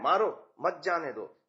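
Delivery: मारो set apart, मत जाने दो joined and falling; mild command, मत grouped with जाने दो; break after मारो. Acted. Teacher acting out people seeing a thief, break after मारो. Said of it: "चोर आ रहा है कहीं से और हम कह रहे हैं".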